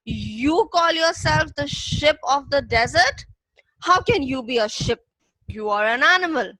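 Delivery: a touch of an angry lion, sneering; mildly angry lion challenging the camel; teacher voicing the lion with mild anger. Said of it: "in a very angry voice".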